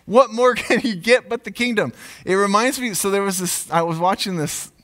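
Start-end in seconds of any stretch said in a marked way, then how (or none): 0.1-1.9 higher, indignant king muttering his grudge; Saul's jealous anger. Retold or imitated. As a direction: act out a wounded, jealous king in mock outrage. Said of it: "He's very angry".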